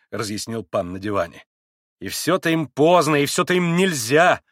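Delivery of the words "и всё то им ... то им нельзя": raised, louder complaint; vexed near-squeal. A narrator's reading. Grushenka complains about the Poles, crying out in vexation. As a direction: whine it in exasperation. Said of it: "почти взвизгнула в досаде Грушенька".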